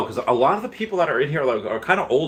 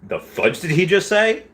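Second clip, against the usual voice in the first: higher, slow incredulous question; mock disbelief; 8 semitones higher than usual. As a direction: draw it out in acted bafflement. Acts out viewer's disbelief at reveal.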